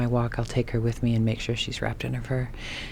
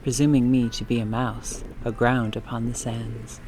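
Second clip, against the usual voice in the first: poem reading. Acted. Reads a Dickinson poem.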